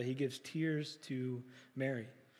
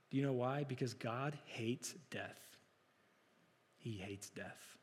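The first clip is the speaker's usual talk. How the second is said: hushed solemn; 4 semitones lower, 9 dB quieter than usual. Real, not acted. Solemn point on God and death.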